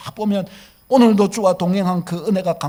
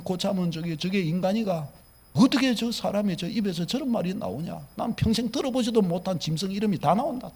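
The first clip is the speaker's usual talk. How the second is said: grumbling complaint. Retold or imitated. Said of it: "이렇게 하기가 얼마나 쉬워요".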